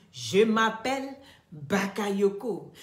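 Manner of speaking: slow, lightly pompous imitation of someone naming himself; mock self-important. Mocking the man who boasts his borrowed name, slow and lightly pompous. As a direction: drag it out like a showy self-appointed chief. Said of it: "Quand tu t'assois et puis tu dis".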